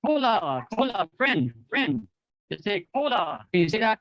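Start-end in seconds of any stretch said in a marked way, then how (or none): 0.0-2.1 friendly hail, higher pitch falling away; friendly greeting. Shown as a demonstration. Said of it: "you feel friendly". 2.9-3.5 friendly hail, higher pitch falling away; friendly greeting. Shown as a demonstration. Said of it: "you feel friendly".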